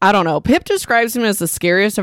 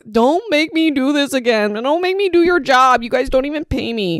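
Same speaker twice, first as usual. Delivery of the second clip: mock begging, imploring tone with pitched-up voice; 7 semitones higher than usual. Retelling Pip's plea to someone who won't help; Pip mock-pleading. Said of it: "Pip's like pleading".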